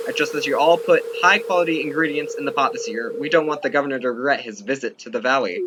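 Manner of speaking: mild mock town-mayor address; lightly voiced mayor. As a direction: announce the potluck to the town, loud then easing. Reads the mayor's ceremony lines.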